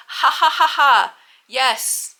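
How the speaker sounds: high, loud nervous fake laughter then a tight yes; awkward fake laugh. Laughing off the work grandma's question, forced and nervous. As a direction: cover the lie with a forced laugh. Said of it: "And then I'm like".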